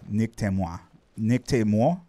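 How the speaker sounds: tentative learner's "moi"; careful try at French "moi", ending in a question; attempted French pronunciation. Shown as a demonstration. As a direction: sound out "Nick te moi", testing the ending. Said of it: "get my mouth to do the moi".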